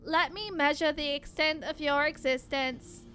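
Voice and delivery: even, mechanical robot voice. Acted. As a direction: speak like a cold machine. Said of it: "constantly doing the robot voice".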